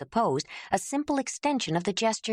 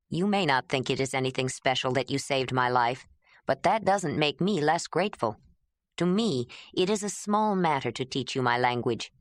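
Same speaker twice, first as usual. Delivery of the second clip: lower, gentle man's voice; Jondalar gentle; 3 semitones lower than usual. Acted. Jondalar telling Ayla her gratitude is understood, gentle.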